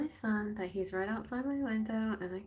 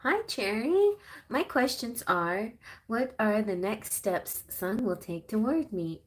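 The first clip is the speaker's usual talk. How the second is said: lightly put-on higher voice, easing down; Patricia; 4 semitones higher than usual. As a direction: pretend caller voice, high on the greeting. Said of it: "but I'm gonna pretend".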